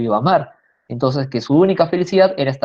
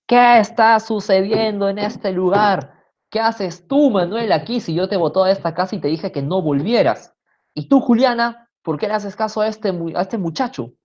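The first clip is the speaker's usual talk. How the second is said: shouting mother; 6 semitones higher than usual. Acted. Mother catching her daughter eloping, shouting in fury. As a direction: scold them at the top of your voice. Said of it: "y grita".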